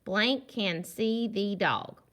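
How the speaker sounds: Blank can see the dog, read slowly, word by word; teacher reading a worksheet sentence to children; slow reading aloud. Shown as a demonstration. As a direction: read it out slow and clear for young kids. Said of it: "This sentence says".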